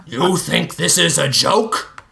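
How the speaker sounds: lightly voiced threatening snarl. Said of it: "Pesto snarled".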